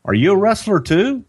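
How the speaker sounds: high whispered fan question; breathless, hopeful fan; whispered mock cop; eager cop. Cop asks Dusty in story.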